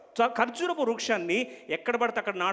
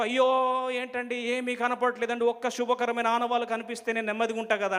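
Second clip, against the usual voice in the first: acted panic; 5 semitones higher than usual. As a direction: complain like someone getting worked up too soon. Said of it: "వెంటనే కంగారు పడిపో". (కంగారు పడుతున్నట్టు నటన)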